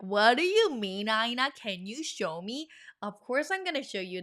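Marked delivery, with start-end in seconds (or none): 0.0-2.7 mock-bewildered student asking for help; exaggerated questioning; puzzled learner. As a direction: voice a confused viewer's plea. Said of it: "You're like".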